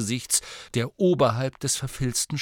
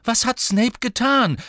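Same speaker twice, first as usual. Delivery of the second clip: forceful, higher and louder; energetic; 13 semitones higher, 6 dB louder than usual. Acted. Harry refuses to feel guilty and demands the truth, forceful. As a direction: push back hard, no nonsense. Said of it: "sagte Harry energisch".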